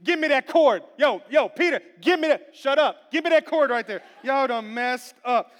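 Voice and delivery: snatch the cord and bark orders; mock stern command. Jesus ordering Peter for the cord, loud and bossy. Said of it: "Jesus is like".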